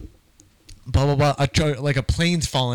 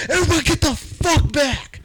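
much higher, hammed-up villain snarl; menacing superhero; 10 semitones higher than usual. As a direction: play the hero turning cruel. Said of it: "and he's like".

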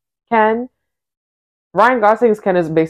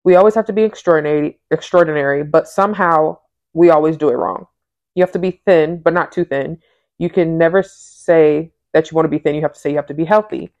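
reading aloud. Acted. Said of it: "I'm gonna read".

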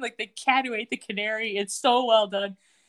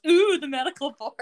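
sing-song mock, a bit higher and louder; mocking echo; 4 semitones higher, 4 dB louder than usual. Michael mocking Levin's threat in a sing-song way. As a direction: repeat the threat back to mock it. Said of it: "And Michael goes".

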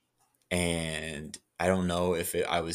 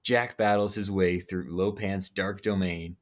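movie trailer voice. Acted. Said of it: "I should be the new, uh, movie voice guy".

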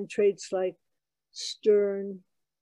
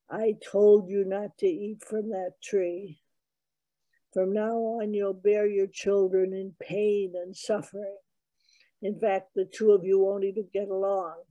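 a hint of a thundering stern God; booming angry God. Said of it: "the booming voice said".

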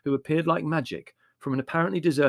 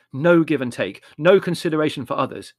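bitter; 4 semitones higher, 8 dB louder than usual. A narrator's reading. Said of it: "said Larry bitterly".

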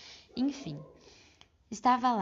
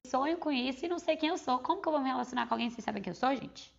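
exasperated outburst; 5 semitones higher, 3 dB louder than usual. Real, not acted. Exasperated at not knowing herself.

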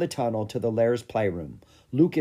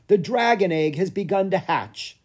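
higher, urgent news cry; excited announcement; 8 semitones higher, 4 dB louder than usual. A narrator's reading. Stefan telling the royal family, excited call. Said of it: "he shouted".

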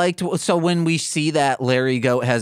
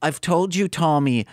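put-on a wobbly Australian accent that drifts toward Liverpool; bad Australian accent; 3 semitones higher than usual. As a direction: play the Australian lady with a shaky accent. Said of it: "a famous band's accent going on here".

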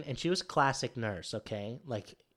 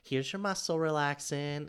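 friendly anesthesiologist; 5 semitones higher, slower than usual. Retold or imitated. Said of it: "so friendly".

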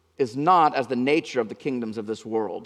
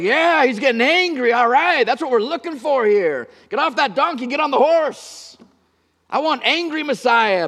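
much higher, louder, eager cheering; eager zealot cheer; 9 semitones higher, 5 dB louder than usual. Acted. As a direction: egg him on like a fired-up rebel. Zealots cheering Jesus' anger on.

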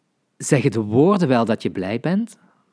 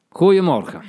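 loud, higher angry bark; 6 semitones higher, 6 dB louder than usual. Shown as a demonstration. Teacher demonstrating an angry good morning, loud. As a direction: snap the greeting out in anger. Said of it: "Je kan het ook boos zeggen".

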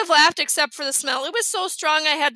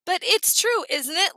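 obnoxious teasing; 4 semitones higher than usual. Acted. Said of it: "in the most obnoxious voice".

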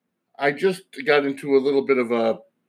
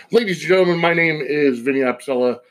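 grand entrance announcement; 2 semitones higher than usual. Acted. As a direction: announce your name to the crowd. Podcast intro announcement.

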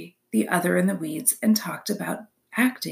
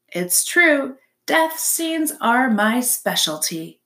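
drawn-out, boastful little performer; lightly voiced theatrical opossum; proud opossum; 4 semitones higher, slower than usual. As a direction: savor the word specialty like a diva.

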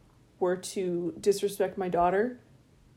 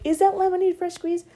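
higher, prissy customer voice; mock the doubting customer; a lemonade buyer asking snootily; snooty customer; 9 semitones higher, 4 dB louder than usual.

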